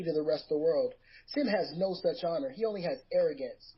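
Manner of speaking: light trash-talk promo, mostly in his own voice; understated heel promo; wrestling promo. Acted. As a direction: cut a mild wrestling promo on a rival. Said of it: "This is a promo".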